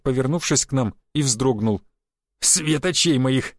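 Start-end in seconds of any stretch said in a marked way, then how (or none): 2.4-3.5 slow, mocking echo of «свет очей моих»; mocking laugh. Conductor mocking the passenger's compliment, amused and slow. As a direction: repeat his compliment back, amused. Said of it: "засмеялась проводница".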